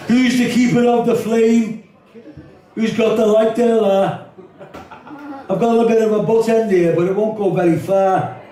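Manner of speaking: lightly voiced young Liverpool lad; Scouse kid. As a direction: play a cocky teenage scally offering a smoke. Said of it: "This is called the kidder conversation".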